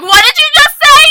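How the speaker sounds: high, shouted demand; loud challenge. Retold or imitated. Guy turning round to the girl who corrected him, loud challenge. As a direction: call it out sharply as if startled.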